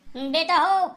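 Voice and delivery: a mock holy man threatening a curse; baba threatening curse. Baba warns the family he will curse them, hammed-up menace.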